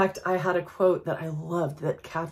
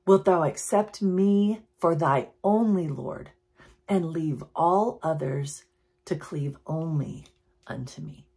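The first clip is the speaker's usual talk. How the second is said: put-on reading an old quote. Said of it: "she speaks in her eighteen hundreds language".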